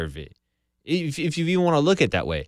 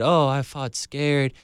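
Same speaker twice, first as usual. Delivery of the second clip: mock Francis; slower than usual. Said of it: "Francis came out after and said".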